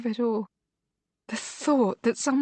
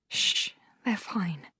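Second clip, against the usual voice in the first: soothing hush; 3 dB quieter, slower than usual. Acted. Soothing frightened sister.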